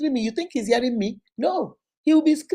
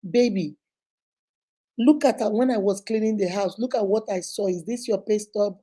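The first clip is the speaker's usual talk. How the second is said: lower, easy spousal questioning; gradual, gentle approach; 3 semitones lower than usual. Shown as a demonstration. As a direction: ease into it tenderly, without accusing. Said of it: "just gradually".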